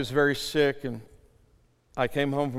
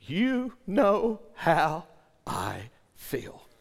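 retold weeping; 6 semitones higher, much slower than usual. Father broken before God, mock-free retold weeping. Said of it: "began to weep and cry".

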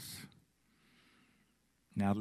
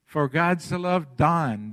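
slow verse, weight on "Don"; stress on "Don"; 2 semitones higher, 3 dB louder, slower than usual. Shown as a demonstration. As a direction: set "Don" in as the personal name. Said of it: "Put your own name in there".

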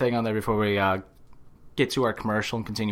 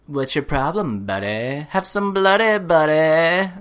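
skit character voice; 5 semitones higher, 3 dB louder than usual. Retold or imitated. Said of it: "he does little skits on there".

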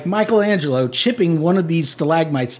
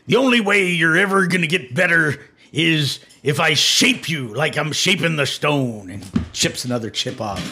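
pirate-like dwarf. Acted. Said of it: "you sound like a pirate".

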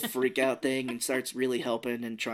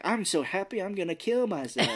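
laughing; 7 semitones higher than usual. Retold or imitated. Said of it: "He's like".

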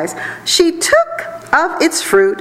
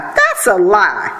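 serpent hissing; 3 semitones lower, slower than usual. Acted. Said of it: "the serpent hissed".

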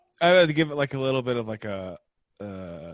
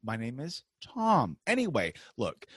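stern father; 2 semitones higher than usual. Acted. Tom Hanks voiced scolding his son over the accent, mildly stern. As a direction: lecture the son like a fed-up father.

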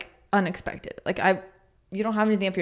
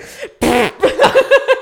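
loud burst of a sneeze escaping; failed held-in sneeze; 14 semitones higher, 9 dB louder than usual. Shown as a demonstration. Retelling a high school sneeze past no return, loud spluttering burst. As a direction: imitate a stifled sneeze exploding out. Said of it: "few times I tried to hold it".

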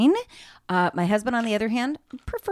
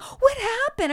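high, retold puzzlement; mock bystanders; 14 semitones higher, slower than usual. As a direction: imitate clueless onlookers asking. Imitates clueless bystanders.

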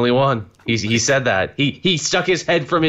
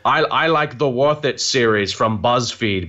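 Rickman-style Alan Moore; 3 semitones lower than usual. Pretend. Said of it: "an Alan Rickman version of Alan Moore".

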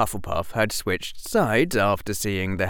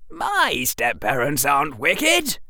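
put-on higher boy blurting it out; a sudden boyish blurt; 7 semitones higher than usual. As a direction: let it slip before thinking. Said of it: "blurted Harry".

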